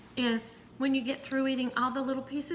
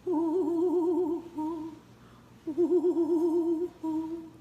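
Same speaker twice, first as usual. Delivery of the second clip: high wavering ghostly oohs; wavering witchy ooh; spooky ooh; 6 semitones higher, much slower than usual. Pretend.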